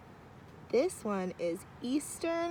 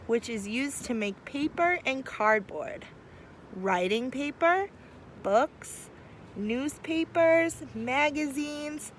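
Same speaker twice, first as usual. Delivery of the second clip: put-on reading to children; 3 semitones higher than usual. Teacher reading picture book aloud.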